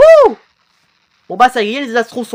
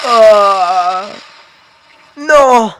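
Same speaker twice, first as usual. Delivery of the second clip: dismayed cry; 5 dB louder than usual. Acted. Hit in play fight. (cri de désespoir)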